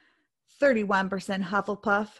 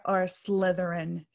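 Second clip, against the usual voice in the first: grumbled, trailing down at the end; grumpy; 3 semitones lower than usual. Real, not acted. Co-host asking listeners their house, grumpy. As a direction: let the name sink into a grumble. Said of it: "you got all grumpy".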